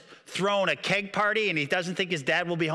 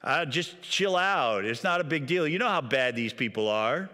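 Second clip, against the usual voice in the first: surfer dude. Retold or imitated. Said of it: "And so Aaron's like".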